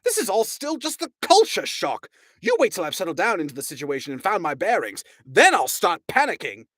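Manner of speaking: high indignant Arthur; snapping. A narrator's reading. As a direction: bite back defensively. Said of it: "snapped Arthur".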